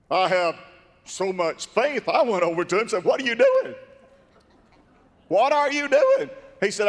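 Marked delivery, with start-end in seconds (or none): 3.0-3.7 high, louder disbelieving what are you doing, rising at the end; incredulous question. Retold or imitated. Preacher retelling catching the man cutting off his cast, incredulous. 5.3-6.3 high, louder what are you doing, falling firmly at the end; insistent question. Retold or imitated. Preacher retelling catching the man cutting off his cast, insistent. Repeated confrontation, falling tune.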